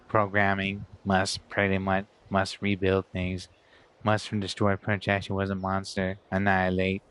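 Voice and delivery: stiff mechanical robot voice; robot impression. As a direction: talk like a droning machine. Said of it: "That's my robot impression".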